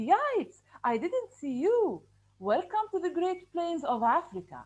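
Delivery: a cheerful little termite voice; happy termite. Acted. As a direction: greet the audience happily. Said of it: "he shows from his voice, voice intonation that he's happy".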